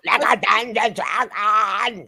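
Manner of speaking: mock dragon yell. Mocking Adam's yell to the co-hosts, chanted mock shout. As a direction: roar it out like a dungeon dragon, half joking. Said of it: "And then he went to yell like that".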